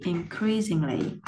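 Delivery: slow "increasingly", in-CREAS-ing-ly; stress on second syllable. Shown as a demonstration. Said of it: "Nó rơi vào vần số hai". (increasingly đọc chậm, nhấn vần hai)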